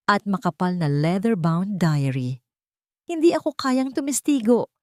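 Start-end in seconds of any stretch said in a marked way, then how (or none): 3.1-4.7 higher, firm and settled, no room for argument; final decision. A narrator's reading. Angelica refusing Maria's plea to testify, firm and final. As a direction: close the matter for good. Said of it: "Ang boses ay puno ng pinal na desisyon".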